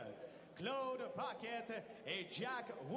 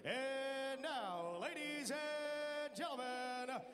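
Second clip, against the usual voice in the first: fight promoter. Real, not acted. Ring announcer opens the bout.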